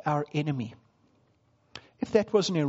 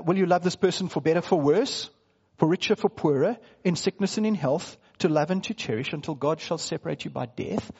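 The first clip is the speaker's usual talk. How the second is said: reciting wedding vows. Retold or imitated. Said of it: "So when I say".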